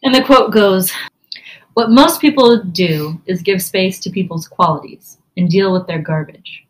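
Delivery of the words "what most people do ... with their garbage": hushed whisper. Acted. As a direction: whisper it like a secret. Unvoiced whisper reading quote.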